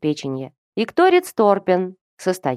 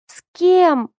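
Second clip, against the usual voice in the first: a sudden outraged shriek; shrill squeal; 12 semitones higher, 4 dB louder than usual. A narrator's reading. Girl shrieking at her brother, much higher squeal. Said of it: "взвизгнула Киран".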